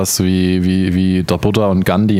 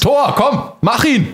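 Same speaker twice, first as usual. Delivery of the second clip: excited cheering. Real, not acted. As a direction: urge the shot on eagerly. Cheering on a game shot.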